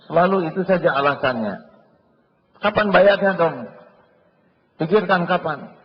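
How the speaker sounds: high, loud, demanding; hammed-up angry creditor; pushy creditor. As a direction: press hard for the money. Creditor pressing debtor for payment.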